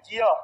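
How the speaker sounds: "ज्य" carefully said as "jya"; correct pronunciation. Shown as a demonstration. Teacher answering own question, "ज्य" clearly as jya. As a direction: sound a j and y in "ज्य". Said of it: "ज्ञ का pronunciation क्या होता है".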